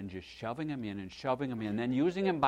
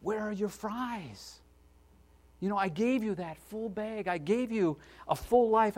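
lightly voiced Jesus; 8 semitones higher than usual. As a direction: speak as a gentle, disappointed Jesus. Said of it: "and he says".

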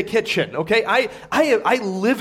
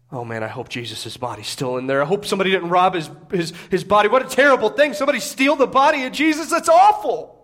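mounting dismay; 2 semitones lower than usual. Acted. Women at the tomb fearing a stolen body, mounting dismay.

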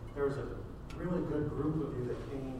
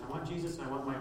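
rising from usual voice to loud, high protest; building insistence; 4 semitones higher, 3 dB louder than usual. Acted. Preacher mimics believers adding demands, increasingly insistent. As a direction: pile up the wants, climbing higher and louder.

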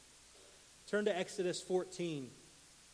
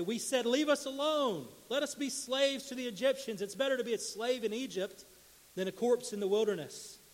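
higher, desperate pleading; panicked complaint; 5 semitones higher, 3 dB louder than usual. Acted. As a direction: beg to go back to slavery. People complaining to Moses.

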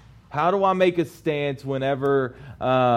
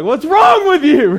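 high, loud mock outrage at himself; exasperated self-scolding; 13 semitones higher, 13 dB louder than usual. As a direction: scold yourself in disbelief. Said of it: "I thought to myself".

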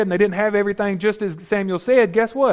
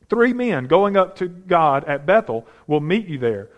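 measured, deliberate scripture reading; 3 semitones lower than usual. Acted. Preacher reading Samuel's words to Saul, measured scripture reading. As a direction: read the passage with weight. Reads scripture passage aloud.

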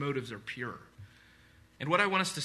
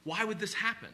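mock distressed bystanders; 6 semitones higher than usual. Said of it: "everyone around was like".

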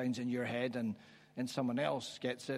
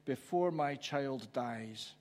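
slow, understated plea; last-ditch plea; 4 dB quieter, slower than usual. Retold or imitated. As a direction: plead slowly, holding the desperation in. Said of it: "last-ditched attempt".

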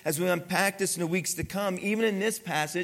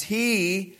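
he said alone, louder; emphasis on he; 2 semitones higher, 4 dB louder than usual. Shown as a demonstration. Pastor stressing he to the congregation, a loud he. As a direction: set he apart and punch it. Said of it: "notice these, this emphasis".

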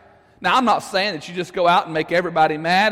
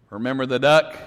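low, knowing sister's threat; sly threat; 7 semitones lower than usual. Acted. Sister to brother, a low sly threat. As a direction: lean in and hold it over him.

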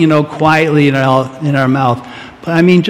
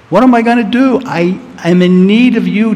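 desperate prayer; 5 semitones higher than usual. Acted. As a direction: cry out as if truly lost.

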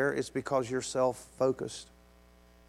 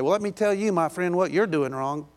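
mock angry; 4 semitones higher, 4 dB louder than usual. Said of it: "you might get mad and say".

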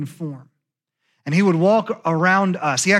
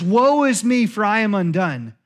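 louder, pleading cry; a raised lament; 4 semitones higher, 3 dB louder than usual. Retold or imitated. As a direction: cry it out to God, undone. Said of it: "when he cries out and says".

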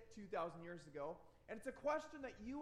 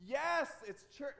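raised, higher voice with a drawn-out yes; retold emphatic answer; 5 semitones higher, 6 dB louder, slower than usual. Dad answering his three-year-old's question, emphatically. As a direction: answer slowly and loudly.

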